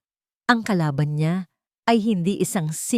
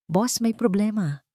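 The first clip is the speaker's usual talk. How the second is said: alarmed; 4 semitones higher than usual. Acted. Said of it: "Napalitan ito ng pagkaalarma".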